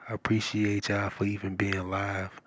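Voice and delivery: ordinary talk, nothing marked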